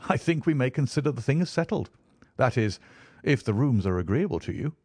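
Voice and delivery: lightly voiced Holmes.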